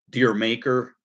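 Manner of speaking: "Dear Maker" said as two separate words; alternate pronunciation. Shown as a demonstration. Vlogger lists what people call the song, alternate pronunciation. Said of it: "or they call it".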